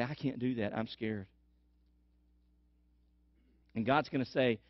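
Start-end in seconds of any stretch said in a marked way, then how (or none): 0.0-1.3 scared. Retold or imitated. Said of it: "you're gonna say".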